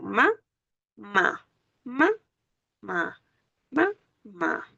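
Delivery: "Ma, ma" in pairs, rising then falling, pause between; split into syllables. Shown as a demonstration. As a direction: sound out "Ma, ma" repeatedly, each syllable on its own beat. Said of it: "aquí yo tengo que colocar mi acento".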